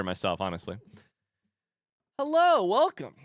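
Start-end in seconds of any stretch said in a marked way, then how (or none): 2.2-3.1 squeaky high hello; high sing-song greeting. Pretend. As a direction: chirp it way up high. Stream greeting to chat.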